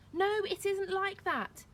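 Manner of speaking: high, loud, drawn-out denial; desperate protest. A narrator's reading. Chaya to villagers not listening, desperate protest. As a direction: cry out your denial.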